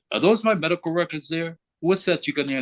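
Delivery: high-pitched indignant challenge; going off on her. Retold or imitated. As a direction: retell an irate interrogation. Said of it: "I went off on her".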